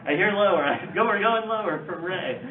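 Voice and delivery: playful auctioneer calling out bids. Pretend. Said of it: "like an auctioneer".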